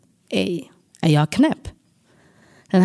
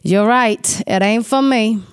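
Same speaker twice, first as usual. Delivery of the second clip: inner cheer; 3 semitones higher than usual. Retold or imitated. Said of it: "på insidan jag skriker".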